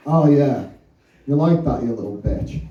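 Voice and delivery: low mock dirty talk. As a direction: growl it like a cocky lover. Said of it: "he's going like".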